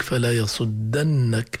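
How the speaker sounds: slow "يصدنك" as yasuddannak, a after dd; fatha on the dal. Shown as a demonstration. Teacher cites the other surah, slow "يصدنك" with a. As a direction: recite "يصدنك" drawn out with a before nn. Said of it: "في سورة طه".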